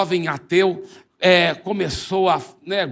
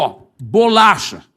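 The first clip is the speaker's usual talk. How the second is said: laughing repetition; 5 dB louder than usual. Acted. Zé repeats the word with a laugh.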